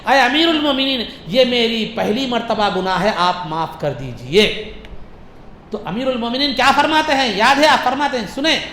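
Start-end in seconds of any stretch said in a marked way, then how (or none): 0.1-4.7 respectful plea. Retold or imitated. Thief asks the caliph to forgive his first offence, respectful plea. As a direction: politely beg pardon, slowing at the end. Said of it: "بڑے ادب سے کہا".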